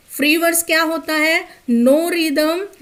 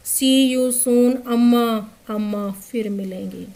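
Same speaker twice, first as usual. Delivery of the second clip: quoted farewell. Retold or imitated. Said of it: "जो मैंने कहा वो था".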